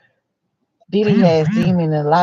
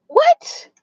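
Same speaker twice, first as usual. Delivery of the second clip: breathless unvoiced what, high; a hushed shocked what; whispered what. Real, not acted. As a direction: whisper it, stunned.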